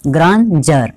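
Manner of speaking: ग्रांजर ending in a "jar" sound; pronunciation demo. Shown as a demonstration. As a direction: say ग्रांजर with "j" where D is written. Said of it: "इसको क्या पढ़ेंगे". (ग्रांजर में "ड" की जगह "ज")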